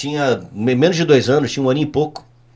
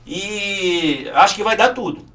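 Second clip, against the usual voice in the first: rindo com deboche; 4 dB quieter, much slower than usual. Real, not acted. Mocking voters, laughing.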